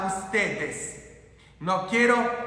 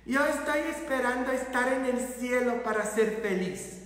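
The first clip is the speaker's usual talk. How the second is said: soft, quick mock lament; hushed complaint in someone else's voice; retold resigned parishioner; 3 semitones higher, 4 dB quieter, faster than usual. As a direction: imitate a long-suffering believer. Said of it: "muchos de ustedes dicen".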